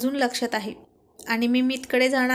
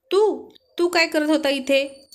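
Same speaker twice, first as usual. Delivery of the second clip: startled surprise; 4 semitones higher, slower than usual. Acted. Wife startled to find husband behind her, shocked stammer. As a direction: caught off guard, gasp it out haltingly. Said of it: "तिनं आश्चर्याने विचारलं".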